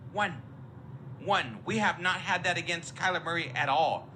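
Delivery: ordinary talk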